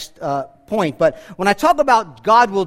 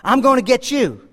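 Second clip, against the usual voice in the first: cave echo; 3 semitones higher than usual. Acted. Cave repeating the boy's threat, mock echo. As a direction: mimic the cave throwing it back. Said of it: "what the echo say".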